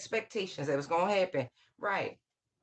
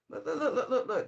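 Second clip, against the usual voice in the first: laughing; 6 semitones higher, faster than usual. Real, not acted. Laughing at the card she drew.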